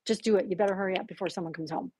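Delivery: mildly insistent urging; firm, pushy. Retold or imitated. Imitating the voice pushing her to act, firm. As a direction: press the listener to act, a touch impatient. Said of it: "Now it was a little more firm".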